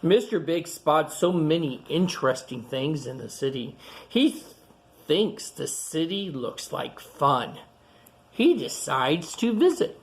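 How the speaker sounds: clear, lively picture-book reading voice; reading to children. Acted. Reading a picture book aloud to young kids, storytelling. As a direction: read it out to the kids gathered round.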